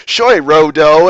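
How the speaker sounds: "Shoy Rodo" with a gliding English oy sound; wrong English-style vowel. Retold or imitated. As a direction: say "Shoy Rodo" like a careless beginner. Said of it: "they'll say".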